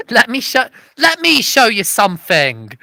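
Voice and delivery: a light hint of Fire Marshal Bill; Fire Marshal Bill impression. Comic quoting a TV fire marshal, light impression. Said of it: "reference to Fire Marshal Bill".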